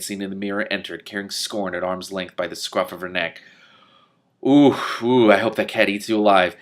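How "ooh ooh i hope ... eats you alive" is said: gleeful jeer. Real, not acted. Reader cheering the cat against the bald man, louder glee.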